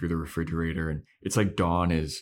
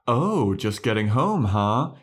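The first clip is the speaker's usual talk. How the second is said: mock gotcha; 3 semitones higher, 5 dB louder, slower than usual. Imagined Buffy catching sister sneaking in.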